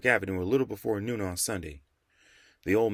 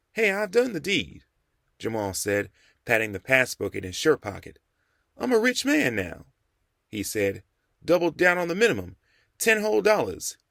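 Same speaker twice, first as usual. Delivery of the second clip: put-on higher young man's voice reciting a rule; 6 semitones higher, 4 dB louder than usual. A narrator's reading. Jamal recites the saving rule to the Rev, higher. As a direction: prove he learned the lesson.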